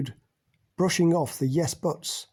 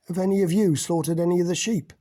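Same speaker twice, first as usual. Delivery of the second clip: higher and louder, pressing the question; challenging; 4 semitones higher, 4 dB louder than usual. Acted. Mac challenges the women in the room, louder and higher. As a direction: throw it down as a dare. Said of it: "he challenged".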